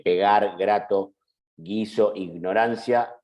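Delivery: "Pegar, grato, guiso, ignorancia" with voiced velar G; hard G. Shown as a demonstration. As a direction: sound out each G as in English "go". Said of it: "en las primeras que dije".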